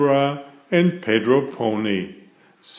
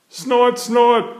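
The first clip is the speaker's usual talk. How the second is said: high squeaky piglet snorts; George snorting; 11 semitones higher, 4 dB louder than usual. A narrator's reading. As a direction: snort like a tiny pig. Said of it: "says George".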